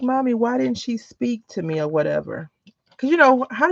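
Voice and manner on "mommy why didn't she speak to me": put-on child asking. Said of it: "And he was like".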